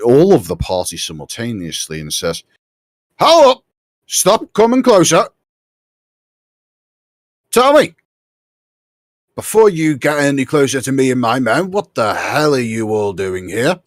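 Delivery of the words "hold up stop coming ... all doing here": raised, urgent officer's challenge; commanding officer. Acted. Leader addressing all of the party, commanding and suspicious.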